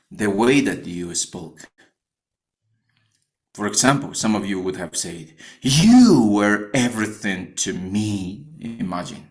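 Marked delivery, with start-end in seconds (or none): 5.6-8.5 YOU drawn out and hit loud; you stretched and punched; stress on YOU. Shown as a demonstration. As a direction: lean hard on the word you, slowly. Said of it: "is going to mark with the big red spot the word "you".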